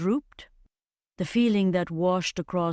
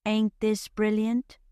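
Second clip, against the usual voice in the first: higher-pitched Cockney exclamation; lightly voiced Cockney accent, lifted and lively; delighted Cockney, pitched up; energetic Cockney; 5 semitones higher than usual. A narrator's reading. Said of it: "speaking with an energetic Cockney accent".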